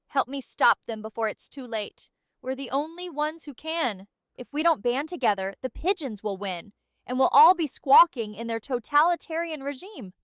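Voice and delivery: urgent doomsday pitch, mildly hammed up; dramatic warning. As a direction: warn her like the world is ending. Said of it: "Why don't you do an unhinged pitch".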